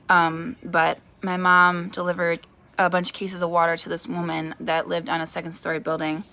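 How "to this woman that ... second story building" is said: talking with a hair in her mouth; words a bit caught on something in the mouth. Real, not acted. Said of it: "Sorry, I had a hair in my mouth".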